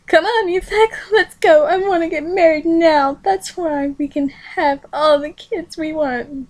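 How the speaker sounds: high-pitched pleading voice; eager bride-to-be. Acted. Shiho urging Yuzak to marry now, high and pleading. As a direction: urge him on, high and eager.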